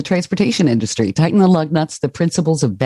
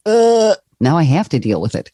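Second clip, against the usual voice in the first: mock-weary "uh", then grudging resignation; exasperated groan; 2 semitones higher than usual. Host voices someone facing a problem they put off, exasperated. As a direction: act out dreading a put-off chore. Voicing dread at a put-off task.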